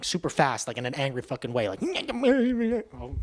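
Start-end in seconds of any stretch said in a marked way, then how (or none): 1.8-3.1 mock deaf yelling. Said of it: "I kinda did it".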